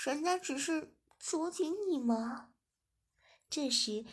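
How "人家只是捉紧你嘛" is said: slow, higher pouty whine; pouting. Acted. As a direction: whine it sweetly to win him back. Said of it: "嘟起小嘴说". (嘟着小嘴撒娇)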